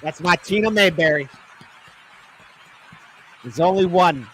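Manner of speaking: loud, high, laughing gush; laughing adoration. Real, not acted. Streamer swooning over the Southern woman in the clip, laughing loud. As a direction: gush about her, laughing.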